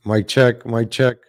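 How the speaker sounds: loud call. Retold or imitated. Calling mic check loudly.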